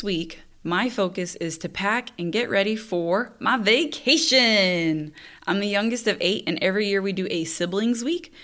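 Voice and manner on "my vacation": drawn-out gleeful announcement. Real, not acted. Host announcing her coming trip, gleeful. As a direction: stretch it out with relish. Sing-song delight at vacation.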